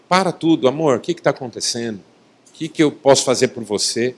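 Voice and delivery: gently voiced reassurance; caring husband. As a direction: drop the volume and offer help. Models accepting reply to wife.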